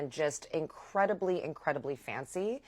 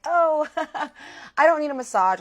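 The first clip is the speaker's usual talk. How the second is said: high, louder laughing refusal; awkward giggling no; nervous laugh; 11 semitones higher, 9 dB louder than usual. Retold or imitated. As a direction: laugh it off while backing away. Refusing unwanted massage.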